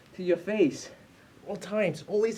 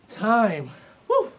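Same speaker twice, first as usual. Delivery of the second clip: loud cheer; 3 semitones higher, 7 dB louder than usual. Real, not acted. Coach ends workout interval.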